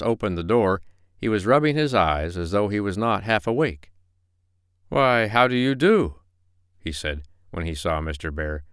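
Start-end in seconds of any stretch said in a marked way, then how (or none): 4.9-6.2 high, slow, drawn-out greeting; feigned surprise. Acted. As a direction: greet the bear with innocent surprise. Possum feigns surprise at visitor.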